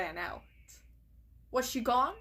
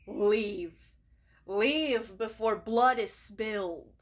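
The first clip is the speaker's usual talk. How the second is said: louder, stern order; commanding; 4 dB louder, slower than usual. Acted. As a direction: order her out as deputy. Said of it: "the deputy commanded".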